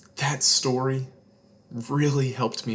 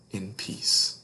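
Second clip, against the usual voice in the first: closing a bedtime story, fading to a breath; hushed ending; 4 semitones lower, 6 dB quieter than usual. A narrator's reading. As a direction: let the last words fall away gently. Story's gentle closing lines.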